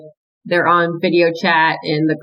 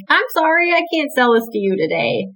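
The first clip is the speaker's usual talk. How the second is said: polite, higher shop-counter apology; customer service voice; 7 semitones higher than usual. Retold or imitated. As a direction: sweetly turn them down like a clerk. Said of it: "nicely in my customer service voice".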